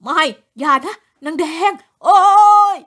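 man cries out as the ghost attacks; panicked cry. A narrator's reading. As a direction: scream as the beast lunges. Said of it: "จอนร้องเสียงหลง".

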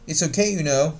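"you know" shrunk to a quick "y'know"; reduced you know. Shown as a demonstration. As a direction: run "okay, you know" together. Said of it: "这个地方是缩读".

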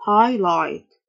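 highlight said HI-lite with no gh sound; teacher shows highlight with silent gh; silent gh demo. Shown as a demonstration. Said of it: "ال جي اتش silent".

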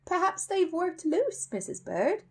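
high, slow, hopeful suggestion. A narrator's reading. Paddington excusing his spots to Mrs Bird, hopeful. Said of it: "said Paddington hopefully".

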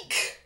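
startled squealed eek. A narrator's reading. Girl finds a mouse in her bed, squealing. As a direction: let out a girl's squeal. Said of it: "squealed Karen".

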